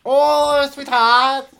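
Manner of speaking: put-on high, loud Latina accent sliding towards Asian; badly faked Latina accent, drifting Asian; botched Latina accent. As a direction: belt out a botched Latina endearment. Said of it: "That now it becomes Asian, doesn't it?".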